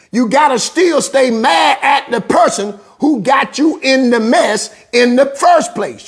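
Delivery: shouted, driving sermon cadence; fiery preaching. Acted. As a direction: preach it hard and fast to the congregation. Preaching at full force.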